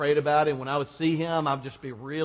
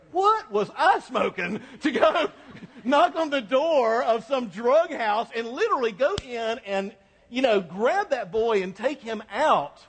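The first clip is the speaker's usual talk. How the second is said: laughing; 7 semitones higher, 3 dB louder than usual. Retold or imitated. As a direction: laugh at your own younger nerve. Mocks own past recklessness.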